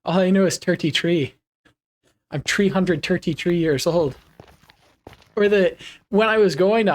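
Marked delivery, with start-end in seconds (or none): 0.0-4.2 attempted Irish accent on "Turty Tree"; light joking Irish accent. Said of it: "sound like in an Irish accent".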